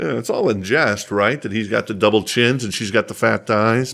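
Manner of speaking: normal talking voice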